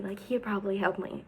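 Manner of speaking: whispered hopeful aside. Retold or imitated. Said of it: "and I'm like".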